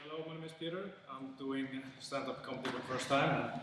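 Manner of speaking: ordinary talk, nothing marked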